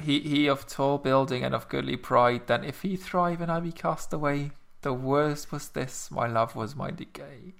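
soft, suggestive, lingering; sultry reading. Acted. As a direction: read it like a seduction. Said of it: "reading it in a kind of, "Ooh, sexy, mm, saucy" kind of way".

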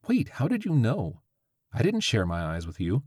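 high, sudden surprised question; startled. Acted. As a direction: catch herself in surprise. Witch startled.

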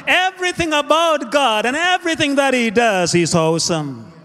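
rhythmic, rolling preacher cadence; emphatic preaching. Acted. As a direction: declare it like a preacher to the congregation. Preaches God is awesome.

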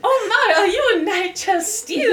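starstruck. Acted. Acting a starstruck fan.

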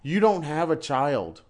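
stretched-out, incredulous questioning; exasperated disbelief. Retold or imitated. Teacher replaying their reaction to a crying assistant, incredulous. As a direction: draw the words out in disbelief. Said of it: "it's like, are you freaking kidding me".

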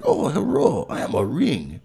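high-pitched mock Asian accent at the start; broad fake Asian accent, starting very high; caricatured Asian accent. Shown as a demonstration. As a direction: put on an exaggerated Asian accent. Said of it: "It's gotta be like".

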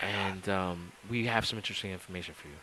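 hushed host whisper; mock Cheaters host whispering the evidence; Joey Greco whisper. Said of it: "I love how he always wants to say".

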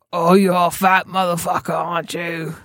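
lightly put-on gruff taunting voice; a hint of a drunk heckler goading a big man; mild mock jeer; Simon Beasley voice. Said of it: "doing the Simon Beasley voice".

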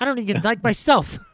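a hint of a high, sulky Lou; dejected Lou. Lou after failing at seduction, mildly high and mopey. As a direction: mope it out, lightly voiced. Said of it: "and he goes like".

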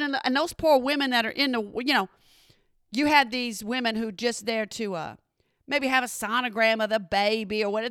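ordinary delivery

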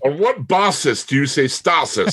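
"basis" and "stasis" rhymed as BAH-sis, STAH-sis; mock mispronunciation. Podcaster mocking the actors' pronunciation, "basis" as BAH-sis, "stasis" as STAH-sis. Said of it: "What is your basis for that pronunciation?".

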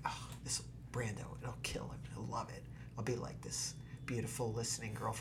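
very soft, low whispered thought; whispered scheming. Retold or imitated. Actress privately plans to be Brando's listening girl, whispered. Her secret plan to charm Brando.

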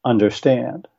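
understand with the stress on stand, under said light; stressed last syllable. Shown as a demonstration. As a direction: land hard on the final stand. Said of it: "a single word would be the word".

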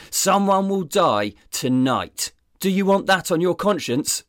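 high, loud shout. Acted. Detective shouting at his cowering wife, loud. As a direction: shout it at her. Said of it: "Sizemore shouted".

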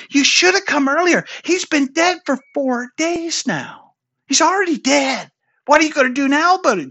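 high-pitched retold complaint; acted reproach. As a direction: complain on behalf of the grieving sisters. Voicing the sisters' reproach.

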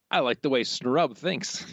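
slow scheming whisper; breathy evil whisper. Acted. Burns quote read whispered.

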